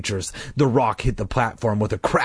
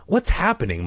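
frightened cry; 6 semitones higher than usual. A narrator's reading. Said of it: "Mike cried".

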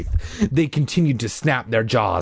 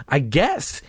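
uncertain; 3 semitones higher than usual. Acted. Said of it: "he replied uncertainly".

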